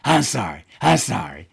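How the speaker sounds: imitating a sheepish smiling apology; mock-sheepish employee caught out. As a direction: put on a half-grinning sorry. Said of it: "he just kinda smiled".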